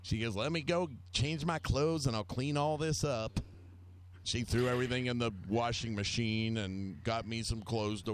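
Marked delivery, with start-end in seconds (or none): 0.3-3.4 lightly imitated Southern mom, higher-pitched; southern lady voice. Friend's mom offering to clean up, lightly imitated southern lady voice. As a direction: lilt it a little like a Southern lady. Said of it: "In that southern lady voice".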